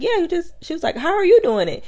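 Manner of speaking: very high, breezy mock girl; high girly voice. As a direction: play her high and clueless.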